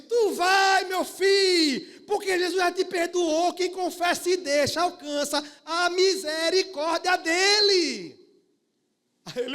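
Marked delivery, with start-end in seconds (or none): 0.0-8.2 loud, high, slow cry of blessing; Sister Lu shouting. Retold or imitated. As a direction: proclaim it at full voice. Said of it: "ela disse".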